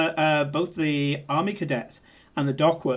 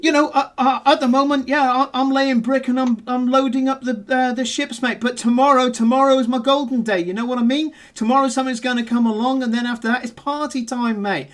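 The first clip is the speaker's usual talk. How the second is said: higher, louder cockney geezer chatter; dock worker's London accent; 7 semitones higher, 4 dB louder than usual. Acted. Dock worker sizing up the player, loud high cockney bravado. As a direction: play a cheeky London chancer. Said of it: "looks at you and goes".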